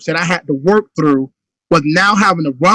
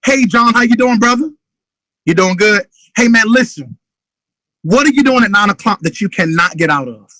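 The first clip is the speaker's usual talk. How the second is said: urgent phone pitch. Shown as a demonstration. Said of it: "this urgency you hear in my voice".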